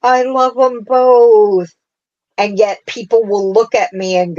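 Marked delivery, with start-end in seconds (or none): 0.0-1.7 gushing. Retold or imitated. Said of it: "and I was like".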